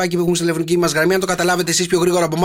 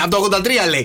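usual speaking voice

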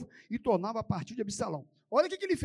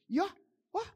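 ordinary talk

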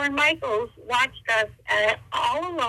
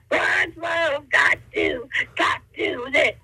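impression of a singer; slower than usual. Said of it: "Tina Turner".

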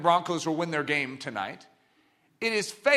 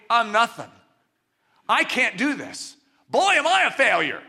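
self-deprecating man; 2 semitones higher, 3 dB louder than usual. Retold or imitated. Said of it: "the opposite of that would be".

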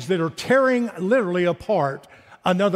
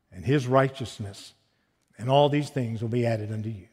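scripture reading. Acted. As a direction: read Jesus' frustrated plea with rising intensity, ending hushed. Reads Jesus' words from Matthew.

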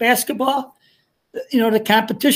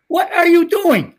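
a sudden mock yell, pitched higher and louder; retold yell; 8 semitones higher, 4 dB louder than usual. Coach yelling at his new manager at the game, higher and louder mock yell. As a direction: snap at the kid beside you in disbelief.

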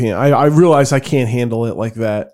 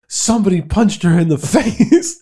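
lightly voiced mother, pitched up; higher mock-outraged mom, breaking into a laugh; mock upset mom; 6 semitones higher than usual. Son retells his mom reporting the punch, mock upset.

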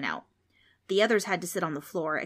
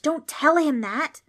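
high, louder, slowed warning; hissed scolding; 8 semitones higher, 7 dB louder, slower than usual. A narrator's reading. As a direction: warn a friend urgently. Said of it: "Trix hissed".

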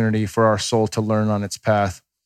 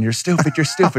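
retold child yelling; 6 semitones higher than usual. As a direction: imitate a five-year-old yelling at dad.

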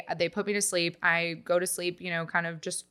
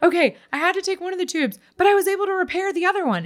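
much higher, bright mock-excited doctor voice; thrilled surgeon quoted high and a bit louder; elated doctor; 12 semitones higher, 5 dB louder than usual. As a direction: play the overjoyed surgeon breaking good news. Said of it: "he is, like, elated".

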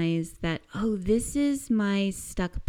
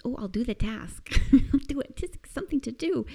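mock eager; 5 semitones higher, faster than usual. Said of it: "get excited about the task".

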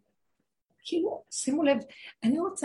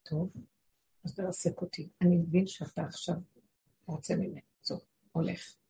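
much softer, lower resigned giving in; fearful surrender; 3 semitones lower, 6 dB quieter than usual. Acted. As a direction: yield quietly in fear of judgment. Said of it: "פחד מהדין".

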